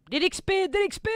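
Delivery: high, loud, thrilled shout over the XP; excited cry. Real, not acted. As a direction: crow with delight. Cheering on gaining experience.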